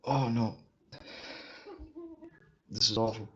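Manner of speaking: hiccuping while talking; speech jolted by hiccups. Real, not acted. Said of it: "I'm hiccuping so much".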